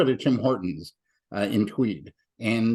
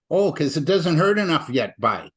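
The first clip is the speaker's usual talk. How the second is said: lightly imitated Ottawa Valley farmer, higher at first; a touch of Ottawa Valley farmer; Ottawa Valley accent; 5 semitones higher, 4 dB louder than usual. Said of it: "got the Ottawa Valley accent".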